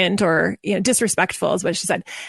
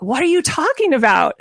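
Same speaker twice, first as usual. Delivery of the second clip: higher-pitched retold disbelief; mock incredulous; 4 semitones higher than usual. Mom challenging the coach about her kids, mock incredulous. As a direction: imitate a baffled, challenging mom.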